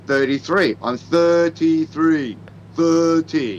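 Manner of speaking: "Thirty-three" carefully enunciated with a real TH; deliberate demo of "Thirty-three", TH intact; pronounced out. Shown as a demonstration. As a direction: slowly sound out every part of "Thirty-three". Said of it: "we do pronounce it out".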